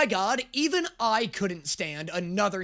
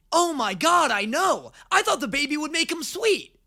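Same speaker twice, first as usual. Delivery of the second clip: higher, animated mock venting; gushing gossip; 5 semitones higher, 4 dB louder than usual. Catra vents to Shadow Weaver about Hordak, acted as gushing gossip. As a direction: play an eager gossip partner.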